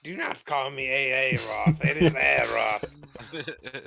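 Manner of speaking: loud, haughty insistence; indignant correction. Acted. Aeroth to the mocking friend, loud indignant correction. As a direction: put them in their place.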